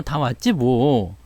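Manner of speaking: normal talking voice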